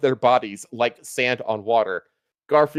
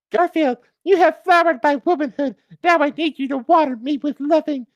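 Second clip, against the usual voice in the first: Martha Washington voice; 13 semitones higher than usual. A narrator's reading. Martha Washington seducing Garfield, high mock falsetto. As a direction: coo it in a hammed-up high lady's voice. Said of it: "said Martha Washington".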